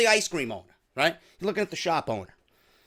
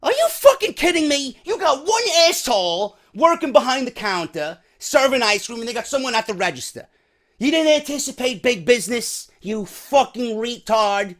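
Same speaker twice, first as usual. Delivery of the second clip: raised-pitch indignant rant, mildly acted; incredulous angry father; 4 semitones higher than usual. Father griping at the understaffed shop owner, mildly hammed-up indignation. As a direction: start high in disbelief, ease into griping. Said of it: "You're this father, and you're seeing this shit".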